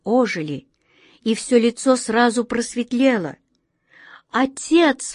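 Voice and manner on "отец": cry out. Acted. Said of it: "вскрикнула Астрель".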